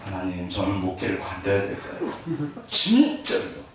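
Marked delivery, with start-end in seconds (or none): 0.0-2.1 lower, softer, defeated plea to God; a hint of a broken pastor's plea; quiet despairing prayer. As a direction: pray like you want to quit. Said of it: "무너져가지고 죽는 줄 알았어요".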